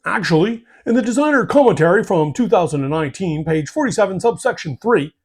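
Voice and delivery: rule lawyer. Retold or imitated. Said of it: "The rule lawyer".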